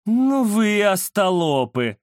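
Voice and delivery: slow, scornful words through teeth; through gritted teeth. Acted. Indira mutters scorn at the rival gang, through teeth. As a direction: scold the fools with contempt. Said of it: "процедила сквозь зубы Индира".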